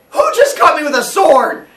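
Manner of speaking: loud, high indignant demand; outraged father. Acted. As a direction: roar at the guilty kids. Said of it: "He's like".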